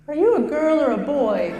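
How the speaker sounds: put-on high, puzzled little kid; small child. Child asking the comedian about her voice, high kid voice. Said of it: "handful of small children".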